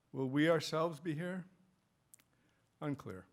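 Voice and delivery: measured recital with weighty pauses; poem reading. Acted. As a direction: let each phrase land before the next. Reads own poem aloud.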